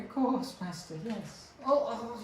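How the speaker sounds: high, eager servant goblin; squeaky little goblin, very high. Acted. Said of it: "That was my, uh, goblin voice".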